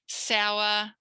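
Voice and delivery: "Sour" held long on a level note; teacher's sustained "Sour"; model syllable. Shown as a demonstration. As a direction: draw out "Sour" clearly for copying. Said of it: "I'm gonna say it and you imitate me".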